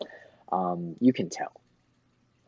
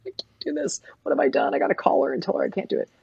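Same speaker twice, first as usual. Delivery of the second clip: mock panic; 12 semitones higher, much faster than usual. Artist panicking over hard tattoo.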